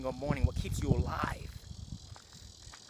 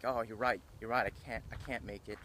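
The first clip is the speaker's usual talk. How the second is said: giving in; 3 semitones lower, 6 dB quieter than usual. Retold or imitated. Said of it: "started paying attention".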